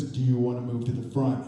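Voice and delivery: low, deep-set voice of a stern stranger; a touch of a gruff bodyguard, low and even; low mystery man. Retold or imitated. Stranger behind them offers better seats, low and grave. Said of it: "And he says".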